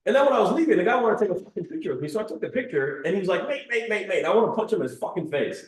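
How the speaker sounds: high-pitched mock-angry rant; Andrew Tate. Retelling a pestered diner's rant, mock angry. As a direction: imitate someone fed up, pitch jumping up. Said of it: "he's, like, really angry in the video".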